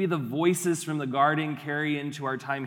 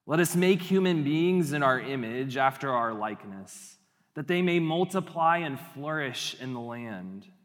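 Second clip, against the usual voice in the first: voice of God. Acted. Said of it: "it sounds like this".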